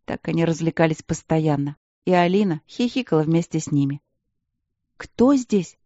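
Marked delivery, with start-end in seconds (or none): 5.0-5.8 trembling. A narrator's reading. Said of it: "спросила она дрожащим голосом".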